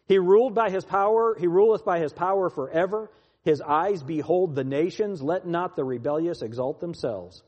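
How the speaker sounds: emphatic psalm reading, key words punched; scripture reading. Acted. Preacher reads the psalm to his listeners, declaimed. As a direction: declaim the psalm with surges of force.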